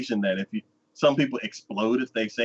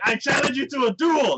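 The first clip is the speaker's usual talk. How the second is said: mock dramatic challenge; 14 semitones higher than usual. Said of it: "me, I'm like".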